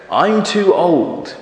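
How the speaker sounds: put-on slow, drawn-out old goat voice. Goat excusing himself from pushing, slow and aged. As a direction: plead old age slowly. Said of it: "says the goat".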